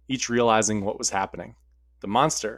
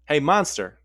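firmer, slightly louder call; a little stronger; 4 semitones higher, 4 dB louder than usual. Acted. Sarah calls the monster again, a bit stronger. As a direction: bolder second try at calling out. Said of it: "she said a little stronger".

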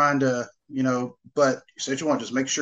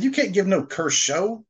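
lightly imitated comedian's punchline, slower and higher; Eddie Murphy quote; 6 semitones higher than usual. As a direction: draw out the quoted line in a raised mock voice. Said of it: "like Eddie Murphy said in".

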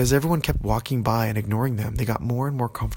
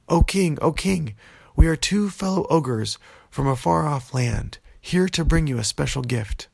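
formal plea; 4 semitones higher than usual. Acted. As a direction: announce yourselves grandly at the gate. Girls addressing ogre king.

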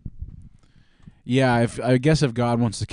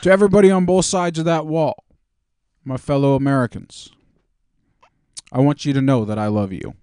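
Obama voice. Retold or imitated. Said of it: "Do Obama voice for this one".

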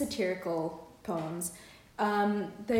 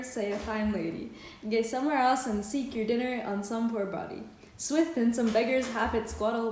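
measured reading of a Scots verse; poem recitation. Acted. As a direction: read the old dialect poem aloud in your own accent. Reads Scots poem aloud.

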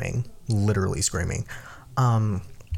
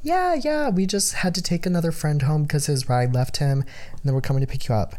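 friend's voice; 5 semitones higher than usual. Retold or imitated. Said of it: "she was like".

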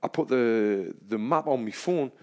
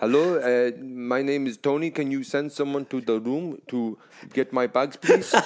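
put-on neutral accent for Siri. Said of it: "If I said it in my accent".

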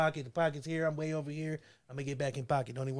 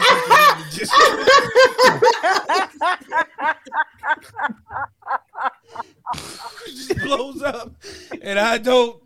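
high, loud, helpless laughter through the words; cracking up; 7 semitones higher, 8 dB louder, slower than usual. Real, not acted. Host blaming gluten for the harsh joke, cracking up. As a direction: try to get the excuse out while laughing hard.

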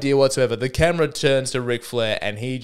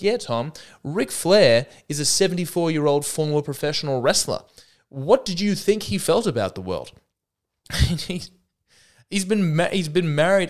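higher, sneering commenter voice; mock commenter; 6 semitones higher than usual. A commenter scoffing at Tom, mock smug voice. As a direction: toss it off like a smug online reply. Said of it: "this little comment".

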